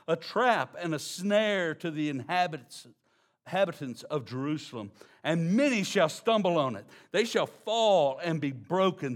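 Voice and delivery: emphatic Bible reading; scripture reading. Acted. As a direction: proclaim the prophecy, slowing at the end. Reads Isaiah passage aloud.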